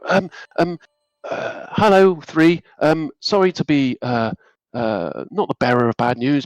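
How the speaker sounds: hesitant, apologetic helper stammering; mild flustered servant voice; nervous Thomas. Acted.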